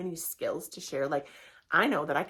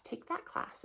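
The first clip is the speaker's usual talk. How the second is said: breathy whisper, softer; whispered aside; 4 semitones higher, 8 dB quieter, slower than usual. Acted. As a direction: lean in and whisper the tip. Whispered aside recommending her class.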